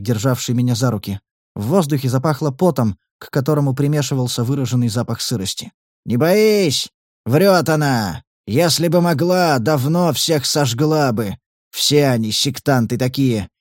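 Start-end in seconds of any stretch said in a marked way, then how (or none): 6.0-13.5 sinister voice. Acted. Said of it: "Обладатель зловещего голоса".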